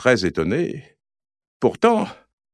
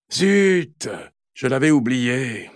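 grumbling; slower than usual. Acted. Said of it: "grommelle Anatole".

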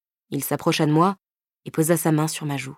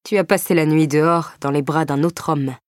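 nasty irony; 3 dB louder than usual. Acted. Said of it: "ironisa-t-il avec un sourire mauvais".

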